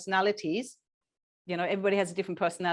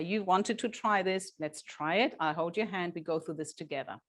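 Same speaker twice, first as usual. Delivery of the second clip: reassuring parent. Shown as a demonstration. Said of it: "You say".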